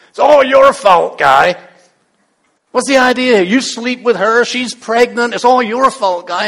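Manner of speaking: loud, high-pitched accusing rant; annoyed outburst. Acted. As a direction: turn on your husband and heap blame on him. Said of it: "she turns on Abram".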